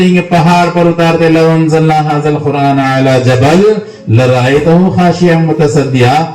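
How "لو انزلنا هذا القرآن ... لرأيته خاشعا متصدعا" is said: measured Arabic recitation, slowing at the end; Quran recitation. Acted. Preacher quoting what Allah says in the Quran, measured recitation. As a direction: recite the verse with drawn-out vowels.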